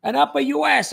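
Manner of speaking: laughing, high mock Italian accent. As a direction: ham up a comic Italian accent through a laugh. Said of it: "since I was doing the Italian character".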